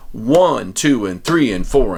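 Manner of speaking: firm, evenly stressed rhythm count; steady teacher's count-in; counting out loud. Shown as a demonstration. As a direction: say the strum count clearly in rhythm. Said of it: "have to say it kinda loudly".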